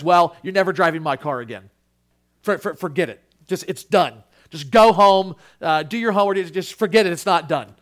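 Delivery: loud, fast scolding; dad tearing into his son, loud and quick; angry father. Retold or imitated. Father scolding son over wrecked car, angry. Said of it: "it's just wrath and fury".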